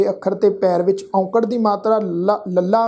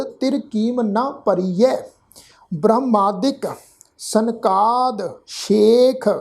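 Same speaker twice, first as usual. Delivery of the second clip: slow Gurbani reading, each word drawn out; measured scripture recitation; much slower than usual. Shown as a demonstration. Teacher showing the congregation how to read the verse, slow measured recitation. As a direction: recite deliberately with pauses between words.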